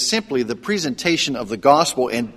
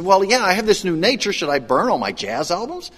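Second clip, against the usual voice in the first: mildly puzzled, questioning retelling; confused; 4 semitones higher than usual. Retold or imitated. New convert questioning his pastor's order, confused. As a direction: imitate someone unsure, ending on a baffled question. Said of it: "he was confused".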